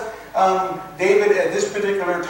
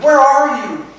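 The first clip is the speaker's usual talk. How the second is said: pleading cry to God; 4 semitones higher, 3 dB louder than usual. Retold or imitated. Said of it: "he's saying".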